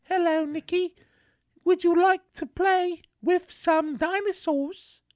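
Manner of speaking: high, slow sweet mom voice; sugary mother offering toys. Retold or imitated. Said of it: "my mom comes over and she said".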